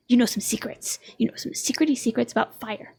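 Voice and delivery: playful hushed tease about secrets; conspiratorial whisper. Acted. Teasing grandma about secrets.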